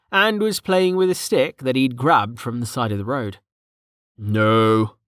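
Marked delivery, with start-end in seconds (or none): 4.2-5.0 wary, level refusal; a guarded no, only lightly coloured; reluctant and guarded. A narrator's reading. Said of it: "Jameis said warily".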